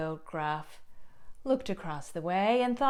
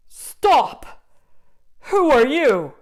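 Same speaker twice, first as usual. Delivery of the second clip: loud, higher barked challenge; troll demand; 6 semitones higher, 10 dB louder, slower than usual. Acted. Troll stopping the goat on the bridge, loud. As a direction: stop the goat cold.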